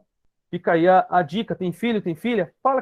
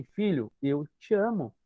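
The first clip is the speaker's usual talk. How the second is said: soft, slow and tender; tender demo; 2 semitones lower, 5 dB quieter, slower than usual. Shown as a demonstration. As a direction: say it gently to your son. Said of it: "fala assim". (ternura suave, devagar)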